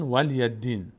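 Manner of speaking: ولی دین squashed to "wal-yad-diin"; common mistaken reading. Shown as a demonstration. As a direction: close the lam and double the d in ولی دین.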